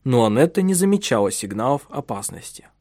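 usual speaking voice

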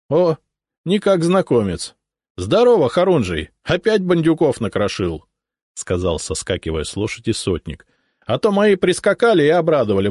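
lightly voiced booming сотник greeting an old acquaintance; a hint of a jovial officer; hearty cossack captain. Сотник jumping off his horse to greet the хорунжий, lightly hearty.

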